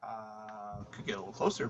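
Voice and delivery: faint, far from the mic; speaking too far from the microphone; barely audible. Real, not acted. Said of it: "are you close to your microphone?".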